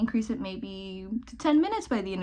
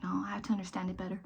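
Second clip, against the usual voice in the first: quick hushed whisper to herself; rapid whispered self-talk; whispered inner voice; 6 dB quieter, faster than usual. Retold or imitated. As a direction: whisper it fast like a private thought.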